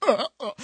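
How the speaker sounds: short, loud startled "uh" noises; mock startled grunts. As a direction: grunt in mock shock at the sight. Reacts to shoulder blades touching.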